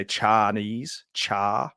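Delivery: slow Wigan "Chinese", stretched out as "cha". Shown as a demonstration. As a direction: say "Chinese" like someone from Wigan, slowly. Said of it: "I'm in Wigan".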